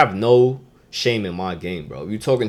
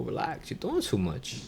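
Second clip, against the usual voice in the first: much softer, near-breathed relax; hushed calming; 13 dB quieter than usual. Shown as a demonstration. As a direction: settle someone down gently. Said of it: "Leave it, bro".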